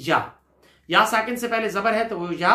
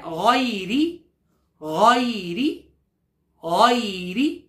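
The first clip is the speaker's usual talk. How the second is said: slow recitation with a rising end; slow chanted recitation; slow Quran recitation; much slower than usual. Shown as a demonstration. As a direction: stretch the word for students to echo. Teacher recites word.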